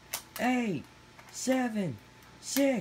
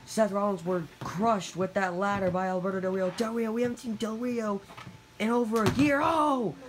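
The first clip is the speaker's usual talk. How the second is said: play-by-play commentary; faster than usual. Acted.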